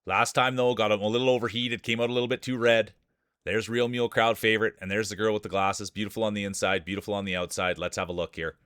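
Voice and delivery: lively play-by-play calling the field; race announcer. Acted. Streamer calls the marble race field, announcer style. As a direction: call the race like a sportscaster.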